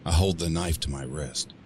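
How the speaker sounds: ordinary delivery, nothing marked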